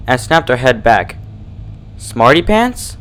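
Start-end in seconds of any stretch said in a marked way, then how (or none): 2.0-3.0 shocked recognition. A narrator's reading. Recognizes the doll.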